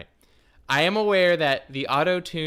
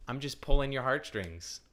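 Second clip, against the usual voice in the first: whisper; 6 dB quieter than usual. Acted. Teasing aside to chat.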